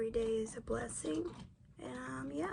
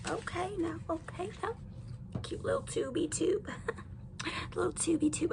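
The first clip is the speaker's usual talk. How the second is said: excited high voice; 5 semitones higher than usual. Real, not acted. Excited over the new tube.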